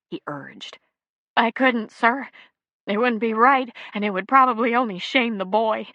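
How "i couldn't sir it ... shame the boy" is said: tearful refusal. A narrator's reading. Grieving mother refusing.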